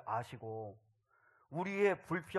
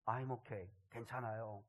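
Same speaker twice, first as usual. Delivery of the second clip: softer, lower, subdued reply; timid child, imitated; 4 semitones lower, 8 dB quieter, slower than usual. Injured adopted son reassures his watchful father, timid and subdued. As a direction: quietly quote a child wary of upsetting Dad. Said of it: "아버지 눈치를 이렇게 보더라".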